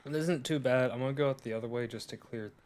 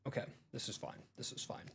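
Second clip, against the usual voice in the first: false bravado; 8 dB quieter, faster than usual. Real, not acted. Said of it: "I'm not scared".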